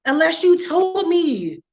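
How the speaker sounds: drawn-out exasperation. Real, not acted. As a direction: lay it out slowly like it's obvious. Ranting at daughter.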